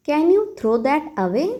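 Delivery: very slow, teacherly model phrase; slow model sentence. Shown as a demonstration. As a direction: spell it out slowly for learners. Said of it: "तो आप कहिए". (बहुत धीमे, सिखाने वाले अंदाज़ में)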